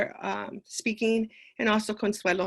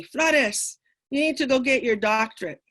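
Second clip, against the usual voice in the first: professor's yell; 3 semitones higher, 4 dB louder than usual. Retold or imitated. Professor pushing her to get a doctorate, mock yell. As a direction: call out Flores like a pushy professor. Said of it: "this professor would yell at me".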